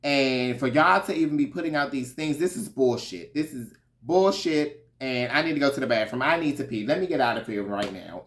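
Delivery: half-acted angry rant about the group; hammed-up indignant tirade; mock fuming rant. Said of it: "Karen was fuming now".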